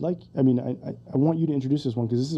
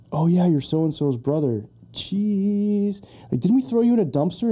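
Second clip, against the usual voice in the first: higher, teasing mock recognition; movie quote imitation; 4 semitones higher than usual. Fan quoting guys who threw him in a dumpster, mock taunting. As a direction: lightly act the taunting old acquaintance.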